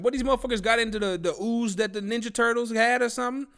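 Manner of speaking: high-pitched comic disbelief; incredulous rant. Acted. Streamer ranting about radioactive shrimp, incredulous.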